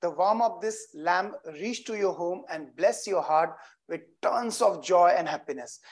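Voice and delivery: tender ceremonial blessing; heartfelt blessing. Real, not acted. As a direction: speak the wish gently over the lamp. Blessing during the lamp ceremony.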